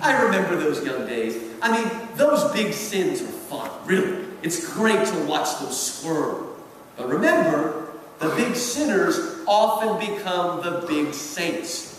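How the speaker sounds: a hint of a jaded senior devil savouring his advice; Screwtape's voice. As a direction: uncle Screwtape gently correcting his nephew, lightly voiced. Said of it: "And Screwtape reacts".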